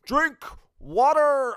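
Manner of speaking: high, slow drill sergeant scream; Drill Sergeant Thomas. Retold or imitated. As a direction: bellow it in a funny cadence. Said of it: "Drill Sergeant Thomas".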